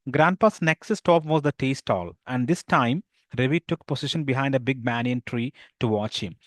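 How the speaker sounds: slow, careful read-aloud of the story. A narrator's reading. Teacher reading the English story to pupils, slow and careful. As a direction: read the English lines slowly to the class.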